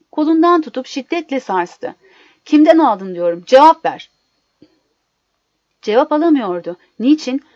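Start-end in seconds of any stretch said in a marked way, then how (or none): 2.4-4.1 loud, forceful order to answer; furious interrogation rising to a shout; angry demand. Acted. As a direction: demand it, exploding on the last words. Husband violently shakes her, demanding answer.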